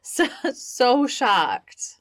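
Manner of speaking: slow, breathy sarcastic whisper. Acted. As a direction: fake shock, drawn out in a whisper. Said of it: "everyone is really surprised".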